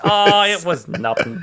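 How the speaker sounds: high, hammed-up aw-shucks; bashful. Repeating the escapee's modest reply, mock bashful. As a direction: overplay the bashful modesty with a big opening "oh". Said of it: "Death Row becomes genuinely bashful".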